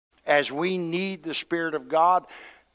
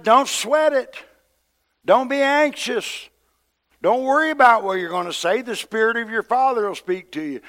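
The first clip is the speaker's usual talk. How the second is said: high, loud preacher's urging; emphatic exhortation; 9 semitones higher, 7 dB louder than usual. Acted. Preacher voicing Jesus's words to anxious disciples, rousing exhortation. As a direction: call it out as rousing reassurance.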